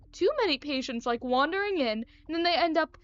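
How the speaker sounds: lightly voiced eccentric doctor, complaining; a hint of villain in a huffy doctor; fussy odd doctor. Doctor complains about patients wandering in, fussy character voice.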